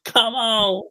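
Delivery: high, pleading cheer; urging him on under your breath; rooting. Retold or imitated. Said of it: "I was like".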